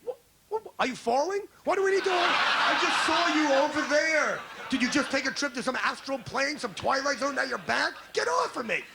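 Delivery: high, hammed-up husband pushing wife off; husband shrugging off the hug, high and exasperated; mock exasperation. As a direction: play the baffled husband, half yelling. Husband reacting to wife's hug.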